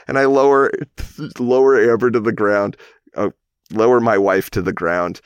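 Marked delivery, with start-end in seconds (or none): 0.8-1.3 brief, quiet real laugh; stifled little chuckle; soft chuckle. Real, not acted. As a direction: let a small laugh slip out mid-story. Amused mid-story at wife fainting.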